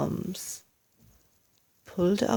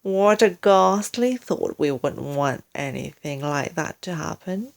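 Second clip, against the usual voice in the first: mock concern; 2 semitones lower than usual. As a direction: fake horror then smooth reassurance. Mr Twit feigns concern.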